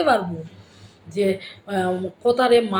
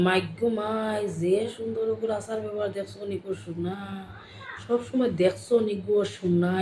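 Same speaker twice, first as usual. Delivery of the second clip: Sylheti lilt; 5 dB quieter than usual. Shown as a demonstration. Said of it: "একটা টান থাকে".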